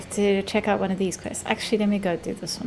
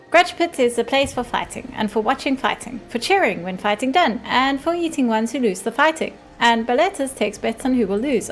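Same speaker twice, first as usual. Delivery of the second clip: mushroom creature voice; 4 semitones higher, 4 dB louder than usual. Acted.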